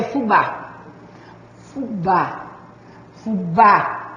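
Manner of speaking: "fubá" with the weight on "bá"; stress on final syllable. Shown as a demonstration. Teacher showing an oxytone word to students, stress on "bá" in "fubá". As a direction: say "fubá" leaning on the last syllable, "bá". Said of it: "a sílaba tônica é o bá".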